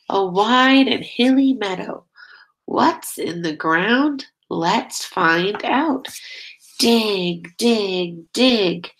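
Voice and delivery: sing-song storybook reading, steady beat; reading to children. Acted. Teacher reading a nature book to her class, sing-song. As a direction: lead the chant for little listeners. Reads picture book aloud.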